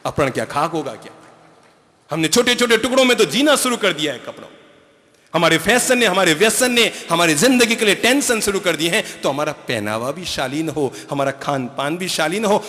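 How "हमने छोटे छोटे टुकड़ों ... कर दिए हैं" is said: high, loud and fast, driving the point home; preaching at full force. Real, not acted. Preacher scolding the congregation about fashion, in a loud high fast voice. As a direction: thunder it at the crowd like a pulpit warning.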